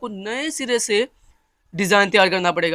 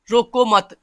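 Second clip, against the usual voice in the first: "रोको मत" as one unit, louder; मत joined to रोको; 3 semitones higher, 6 dB louder, much slower than usual. Shown as a demonstration. Teacher explaining the joined meaning, "रोको मत" as one order. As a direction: bind "मत" straight onto "रोको". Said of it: "इकट्ठा पढ़ूं".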